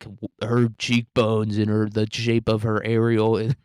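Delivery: slow, savoring mock appreciation; a slow, hammed-up admiring study; mock rapt analysis. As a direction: linger on each word like a connoisseur. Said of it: "being like".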